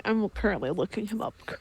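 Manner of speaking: normal talking voice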